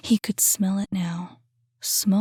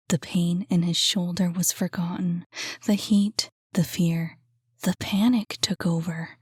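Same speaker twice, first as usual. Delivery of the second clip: hushed story narration. A narrator's reading. Narrator reading the thriller chapter, hushed tense narration. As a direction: keep the tension in a hushed telling.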